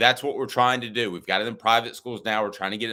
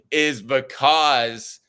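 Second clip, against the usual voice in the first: laughing; 5 semitones higher, 5 dB louder, much slower than usual. Real, not acted. Laughing while making his point.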